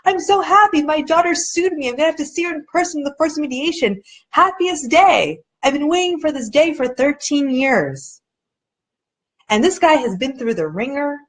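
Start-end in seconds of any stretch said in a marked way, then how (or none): 0.0-8.2 higher, joyful gush; overflowing with happiness; ecstatic dad. Retold or imitated. Father telling of his daughter's lawsuit, ecstatic higher gush. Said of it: "And he was ecstatic".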